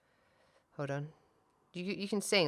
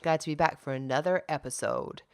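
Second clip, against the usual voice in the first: drawn out. Real, not acted. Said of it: "I was just gonna say short, um, and then it came out long".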